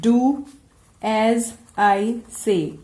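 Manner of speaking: very slow, dragged-out stern order; falling rising tone on a warning. Shown as a demonstration. Teacher showing students a slow warning tone. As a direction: drag it out slowly like a firm warning. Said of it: "or maybe".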